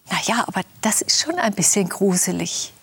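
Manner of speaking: ordinary delivery, nothing marked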